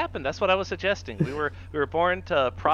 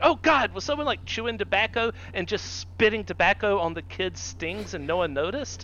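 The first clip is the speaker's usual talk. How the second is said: mild horrified surprise; 3 semitones higher than usual. Retold or imitated. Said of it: "I'm like".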